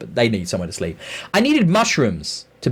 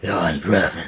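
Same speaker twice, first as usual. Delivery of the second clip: put-on Russian accent; 6 semitones lower than usual. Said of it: "You'd expect everybody to be like".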